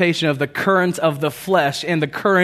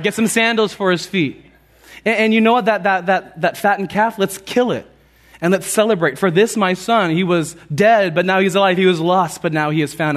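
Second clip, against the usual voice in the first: excited, higher and louder father; joyful father; 5 semitones higher, 4 dB louder than usual. Retold or imitated. Father calling to his servants to celebrate, excited. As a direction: proclaim it like an overjoyed father. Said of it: "He says to the servants".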